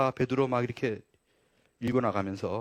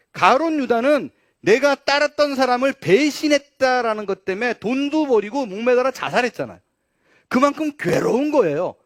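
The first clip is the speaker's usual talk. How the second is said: impassioned preaching; 8 semitones higher, 8 dB louder than usual. Real, not acted.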